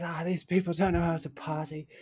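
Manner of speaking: slight lisp, slightly shifted voice; lightly voiced friend with a lisp; Rob Camp voice. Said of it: "just like this".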